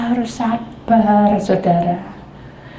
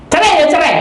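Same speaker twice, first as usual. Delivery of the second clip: loud, raised threat; mock angry threat; 8 semitones higher, 6 dB louder than usual. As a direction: throw it down. Husband threatening divorce.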